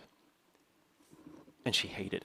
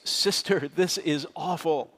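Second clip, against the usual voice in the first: higher, louder retold yell over the roar; yelling over jet noise; 6 semitones higher, 5 dB louder, slower than usual. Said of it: "I yelled over the noise".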